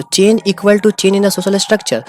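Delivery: very slow, word by word, like a definition to write down; teacher dictating the exam definition of change; slow dictation. Shown as a demonstration. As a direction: spell out the definition slowly for notes. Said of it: "teacher dictating a definition".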